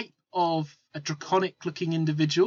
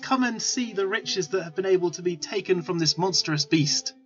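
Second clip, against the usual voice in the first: high-pitched market patter, only mildly raised; gnome hawker calling out; 4 semitones higher than usual. Acted. Gnome peddler luring passers-by to his cart, calling out. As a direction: call the crowd in like a street seller. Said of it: "yelling out at the top of his lungs".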